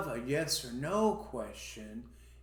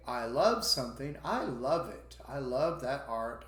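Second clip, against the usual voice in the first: enthusiastic love; 3 dB louder than usual. Shown as a demonstration. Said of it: "if you say".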